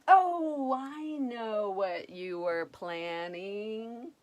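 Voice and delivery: eager prince. Acted. Prince cutting in.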